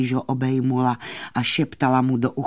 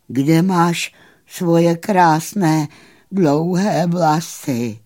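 slow, high, louder wondering ask; surprised question; 6 semitones higher, 5 dB louder, slower than usual. Acted. Horse asks fairy where her hair went, surprised and slow. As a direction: ask it amazed, drawn out. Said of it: "Pak se překvapeně zeptal".

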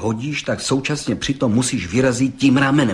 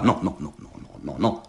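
protesting; 9 semitones lower, 7 dB quieter, faster than usual. Acted. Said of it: "protestoval soudce".

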